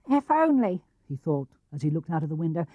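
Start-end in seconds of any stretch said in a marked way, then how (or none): 0.1-0.8 wistful Piglet. A narrator's reading. Piglet voiced in read story.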